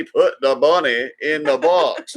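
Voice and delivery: slow, drawn-out Southern drawl quoting Con Air; lightly hammed Southern movie accent; mock Southern accent. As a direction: drag it out in a cheesy Southern accent. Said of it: "His Southern accent was cheesy".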